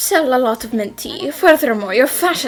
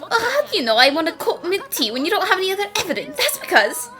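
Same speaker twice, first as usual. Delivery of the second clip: excited; 5 semitones higher, faster than usual. Acted. Arguing excitedly, laughing.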